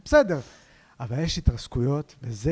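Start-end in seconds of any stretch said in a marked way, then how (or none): 0.0-0.4 high-pitched shrugging self-talk; resigned inner voice. Retold or imitated. Comedian talking himself into bombing on stage, high-pitched resignation.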